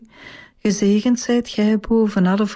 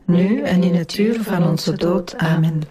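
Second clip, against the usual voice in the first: measured rosary response in unison; praying aloud as a congregation; prayer recitation; 2 semitones lower than usual. Real, not acted. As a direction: recite it together, evenly and devoutly. Group answers the Hail Mary.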